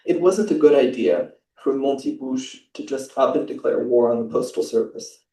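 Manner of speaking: measured, even reading of a novel's opening; calm prose reading; literary reading aloud. Acted. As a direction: read the passage to the audience with care. Reads a prize translation passage.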